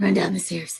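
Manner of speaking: very low, deep voice. Voicing Gilly telling a companion to run down the stairs: lower, deeper voice. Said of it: "in a lower, deeper voice, Gilly just, like".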